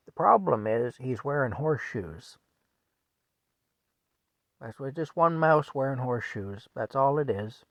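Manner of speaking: deadpan, unhurried explanation; mild, unbothered reply; calm husband. Retold or imitated. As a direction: deliver the absurd excuse matter-of-factly. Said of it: "Frank very calmly".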